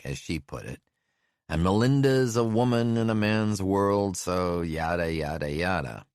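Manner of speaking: dismissive lawman calling over noise. Acted. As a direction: Brazil gossiping over the engine. Brazil gossips over engine.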